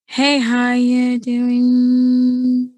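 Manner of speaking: slow relaxed hello; easy everyday greeting; natural speaking voice. Shown as a demonstration. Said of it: "you talk naturally like this".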